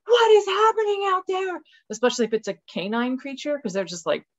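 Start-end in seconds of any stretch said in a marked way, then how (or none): 0.0-1.6 high, squeaky startled dog voice; the dogs reacting to the coyote, high bewildered voice; alarmed dogs. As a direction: voice the dogs as they hear the scream. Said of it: "all the dogs are like".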